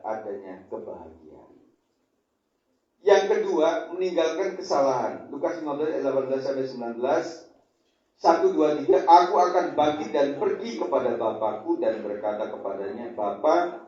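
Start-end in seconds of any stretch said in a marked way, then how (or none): 3.0-13.8 loud, driving sermon delivery; forceful preaching. Acted. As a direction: preach it out to the congregation.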